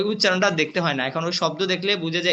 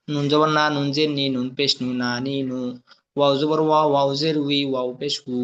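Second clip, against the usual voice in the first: lower, level chant of letter and vowel names; spelling drill recitation; 3 semitones lower than usual. Shown as a demonstration. Teacher drilling Arabic letters with vowel marks, chanted recitation. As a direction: recite it as a steady monotone drill.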